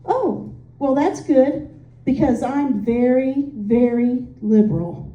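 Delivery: deadpan smart-aleck echo, sinking low at the end; mock-serious, dropping low on the last words; straight-faced retort. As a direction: answer with a straight face, mirroring her. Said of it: "with a straight face and said".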